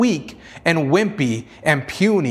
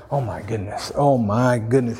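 mock panic; 6 semitones lower than usual. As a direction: imitate someone flustered, playfully. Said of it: "He didn't panic like".

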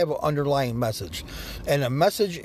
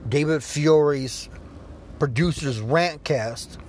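show sign-off; slower than usual. Acted. Announcing the show name slowly.

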